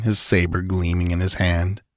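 ordinary delivery, nothing marked

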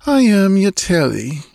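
put-on high, languid girl's voice. A narrator's reading. Girl naming herself to the intruder, languidly. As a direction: answer languidly, pitched well up. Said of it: "she answered languidly".

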